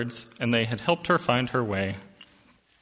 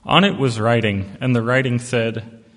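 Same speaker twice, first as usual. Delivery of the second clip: stronger, louder read; louder, firmer retake; 7 dB louder than usual. Shown as a demonstration. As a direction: give it more weight and volume.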